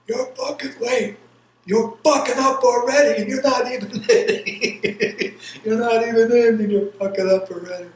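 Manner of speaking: high, loud drill sergeant yell. Retold or imitated. Drill sergeant yelling at the late recruit. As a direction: bark it at the new recruit like a sergeant. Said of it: "the sergeant's going".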